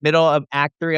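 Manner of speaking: usual speaking voice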